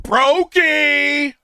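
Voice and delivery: high, loud mocking put-down; sassy dismissive girl. Black girl turning down a broke suitor, high loud sassy sneer. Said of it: "they gonna be like".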